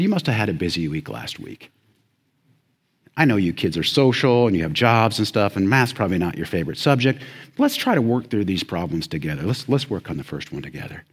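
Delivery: understated imitation of a patient teacher; kindly teacher. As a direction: gently excuse and encourage the student. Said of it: "She was kindly. She was gentle".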